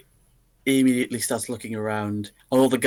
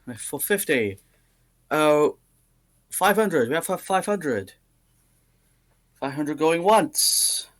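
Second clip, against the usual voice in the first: milk each bid like an auctioneer; auctioneer calling bids; 3 semitones higher than usual. Acted.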